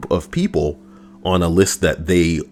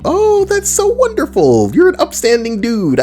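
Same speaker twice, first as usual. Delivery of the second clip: sarcastic praise; 4 dB louder than usual. Real, not acted.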